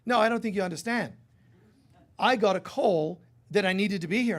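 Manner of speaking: put-on insistent Australian accent, high and loud; a stubborn Aussie correcting the speaker; Australian accent, firmly correcting; strong Australian accent. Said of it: "in his strong accent".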